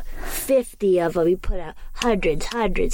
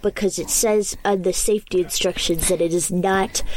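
voicing a commenter. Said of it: "what are these comments like".

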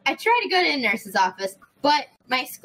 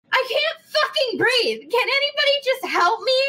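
higher, exasperated, at the end of her rope; pleading to the nurse, higher and exasperated; exasperated plea; 9 semitones higher than usual. Retold or imitated. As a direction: throw the line out in desperate frustration. Desperate plea at nurse's office.

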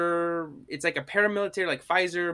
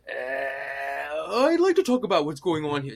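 Stewie. Retold or imitated. Gremlin after taking brain serum, affected intellectual voice. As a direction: put on a pompous cartoon intellectual voice. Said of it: "fucking Stewie".

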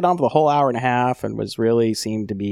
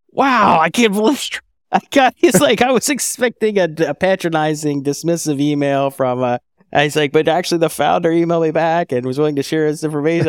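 amazed customer; 4 semitones higher than usual. Retold or imitated. Customer amazed by founder reply.

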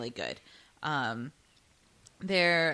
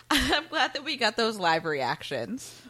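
laughing; 3 semitones higher, 4 dB louder than usual. Real, not acted. Laughing at their own reactions.

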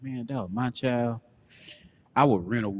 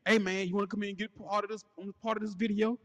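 mock porn actor voice; 10 semitones higher than usual. Acting out porn scene dialogue.

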